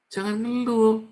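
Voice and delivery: high, loud scolding cry; forceful pulpit rebuke; sharper loud rebuke. Real, not acted. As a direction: punch it harder the second time. Preacher rebuking complaining.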